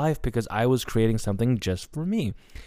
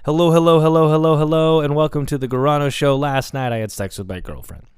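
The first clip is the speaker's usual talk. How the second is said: loud, higher show-host greeting; hammy announcer welcome, louder and higher; podcast host intro; 5 semitones higher, 5 dB louder than usual. Retold or imitated. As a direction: belt it out like opening your own show. Opening his college podcast show.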